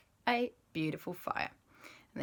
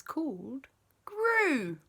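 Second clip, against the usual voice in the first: whisper; 6 semitones higher, much slower than usual. A narrator's reading. Storyteller whispers the new friend's name to children, hushed.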